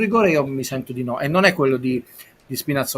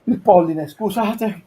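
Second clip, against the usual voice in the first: held back sneeze; words before a sneeze; about to sneeze; 6 semitones higher, 5 dB louder, much slower than usual. Real, not acted. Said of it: "sto per starnutire".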